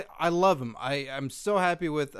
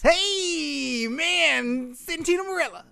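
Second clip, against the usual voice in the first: high, bright cartoon greeting; mock cheery; 11 semitones higher, slower than usual. Cohost answering in his happy cartoon voice, mock cheer. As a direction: play along in the happy voice. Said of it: "the cohost's happy voice".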